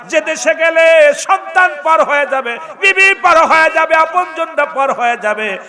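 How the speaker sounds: high, booming warning, slow and drawn out; full-force preaching. Acted. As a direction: cry the warning out to the whole crowd. (চড়া গলায় টেনে টেনে সতর্কবাণী)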